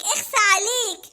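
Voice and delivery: slow, laughing shame on you; laughing scold. Acted. Mona teasing Hamada, slow and laughing. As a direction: tease him while giggling.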